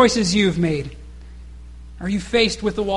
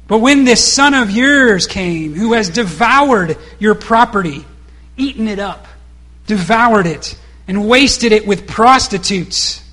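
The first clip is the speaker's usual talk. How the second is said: louder, slow and bitter, spitting out each charge; resentful outburst; 5 dB louder, slower than usual. Retold or imitated. Preacher voicing the older brother accusing his father, resentful and louder. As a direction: make the father hear every wasted coin. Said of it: "responds and said".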